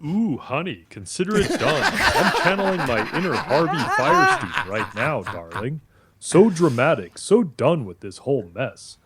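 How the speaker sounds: flamboyant campy gay voice; sassy, dramatic honey-and-darling delivery; Harvey Fierstein. Pretend. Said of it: "talk like a really swishy gay guy".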